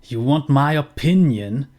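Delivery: first take of the father, brighter and pushier. Acted. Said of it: "Ich bin mit der Stimme jetzt inzwischen in eine Richtung gegangen".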